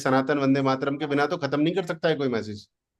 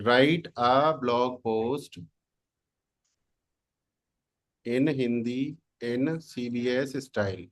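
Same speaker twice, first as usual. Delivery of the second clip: slow, word by word as if typing; slow dictation; much slower than usual. Shown as a demonstration. Teacher dictating a prompt to the class, slow. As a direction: spell the prompt out slowly. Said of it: "dictating prompt while typing".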